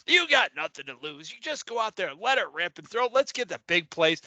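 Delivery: lightly voiced game announcer impression; a hint of a TV commentator urging the quarterback on; Collinsworth. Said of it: "that's my Collinsworth impression".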